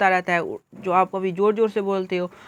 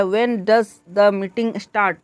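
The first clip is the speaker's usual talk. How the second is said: slow question, stress on "start" at the end; rising intonation; much slower than usual. Shown as a demonstration. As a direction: ask it slowly, rising towards "start?". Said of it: "rising intonation".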